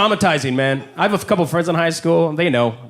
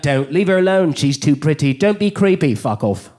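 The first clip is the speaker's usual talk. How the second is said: scolding inner voice in a put-on English accent; English-accented mind; 4 semitones lower than usual. Mind telling him to leave her alone, put-on English accent. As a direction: warn off sternly in an English accent. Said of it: "my mind would be like".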